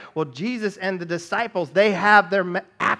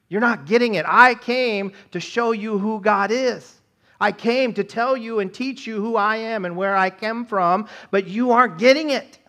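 higher and louder, exasperated pleading; frustrated Jesus; 5 semitones higher, 5 dB louder than usual. Retold or imitated. Jesus to all people, not getting it, loud exasperated plea. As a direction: vent divine frustration at a crowd that won't learn. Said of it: "He's talking about all people".

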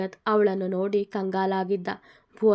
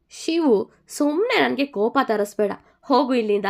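louder, higher irritated snap at Shivu; angry; 3 semitones higher, 4 dB louder than usual. Acted. Jagat, fed up, orders his friend Shivu out angrily. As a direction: tell him off and send him away. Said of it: "ಕೋಪದಿಂದ ಹೇಳಿದ್ದನು ಜಗತ್".

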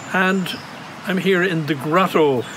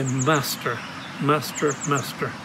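each master softer, fading away; turning to answer the Master, growing hushed; a disciple's hushed reply, trailing off; fading devotion; 3 semitones lower, 6 dB quieter, slower than usual. Retold or imitated. Disciple answering Jesus softly.

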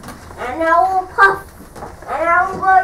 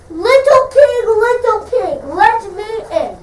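big bad wolf; 4 semitones higher than usual. Wolf calls to the pig.

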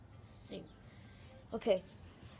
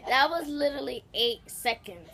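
laughing; 10 dB louder than usual. Real, not acted. Laughing protest.

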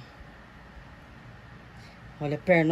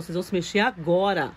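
mock command. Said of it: "Levo pra T V e falo".

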